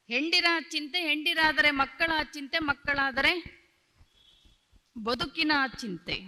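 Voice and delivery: measured, rhythmic recitation of verse lines; reciting a vachana. Acted. Preacher reciting verse to the gathering, rhythmic and deliberate. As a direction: chant each line as a sacred saying, with stretched pauses.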